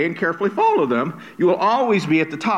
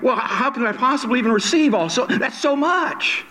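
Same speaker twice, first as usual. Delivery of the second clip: higher voice, stretching out at the end; acted overwhelmed amazement; 6 semitones higher than usual. Preacher voices someone receiving endless blessings, overwhelmed. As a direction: react as if swamped by abundance. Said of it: "It almost sounds like".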